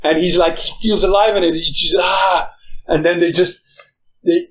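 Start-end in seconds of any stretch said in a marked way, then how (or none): 2.0-2.5 imitated exhilarated yell. Imitating pilot feeling alive.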